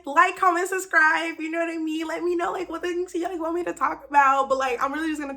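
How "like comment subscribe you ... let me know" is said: higher, loud, bouncy outro; playful YouTuber sign-off; youtuber outro again. Shown as a demonstration. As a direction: hype it up like a channel host. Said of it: "Is that what they be saying?".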